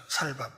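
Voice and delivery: 살밥 said low and quiet with a plain s; Gyeongsang pronunciation. Retold or imitated. Repeating how Gyeongsang people say rice, Gyeongsang pronunciation. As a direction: drop the tense ss, giving 살밥. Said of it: "쌀밥이란 말을 못해".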